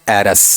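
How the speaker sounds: "एरस" with a weak schwa in the last syllable; unstressed form. Shown as a demonstration. Teacher showing the unstressed feminine form, reduced vowel. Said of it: "और unstress में".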